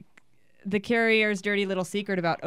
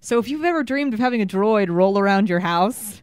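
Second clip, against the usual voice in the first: excited build-up; 2 semitones higher, 7 dB louder than usual. Acted. Hyping up a reveal.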